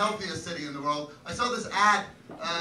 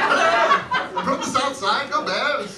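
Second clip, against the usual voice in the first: loud, hammed-up Chicago accent; very bad Chicago accent; 6 semitones higher, 7 dB louder, slower than usual. Shown as a demonstration. Comic posing as a South Side Bears fan, bad Chicago accent. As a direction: open high in a badly faked Chicago accent. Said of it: "That's my very bad Chicago accent".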